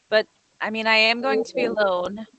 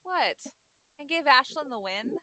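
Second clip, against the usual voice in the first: indignant disbelief; 4 semitones higher than usual. Acted. Scoffing at giving up.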